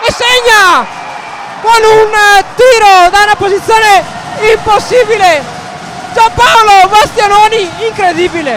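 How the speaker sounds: loud high goal call; breathless italian goal commentary. Real, not acted. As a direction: shout the goal with joy. Goal scored, commentator erupts.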